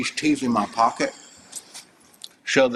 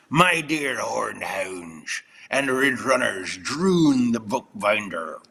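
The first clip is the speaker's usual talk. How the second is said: put-on recital voice; slower than usual.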